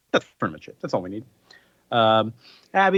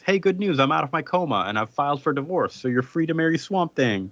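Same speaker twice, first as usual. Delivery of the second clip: cheery announcement; 4 semitones higher than usual. Acted. Husband's cheery good news, acted.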